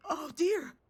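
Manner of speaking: a lightly voiced frightened child's cry; child screaming. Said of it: "you started screaming".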